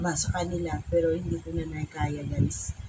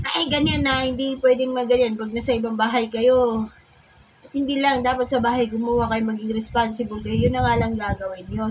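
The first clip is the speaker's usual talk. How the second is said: mock angry scolding, louder and higher at the start; pretend furious; 4 semitones higher, 4 dB louder than usual. Mother pretending to be furious at her son in front of his friend, mock anger. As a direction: fake a big angry lecture to keep from laughing. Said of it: "kunwari, galit na galit ako".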